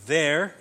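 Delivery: "there" chanted high and rising; ghost note. Shown as a demonstration. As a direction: lift "there" as its own note. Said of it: "is the ghost note".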